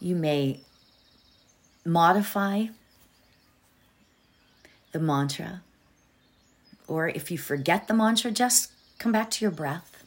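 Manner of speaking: fading to a hushed whisper; soft whisper. Acted. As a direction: let the mantra drift into a whisper. Meditation fades into whispered mantra.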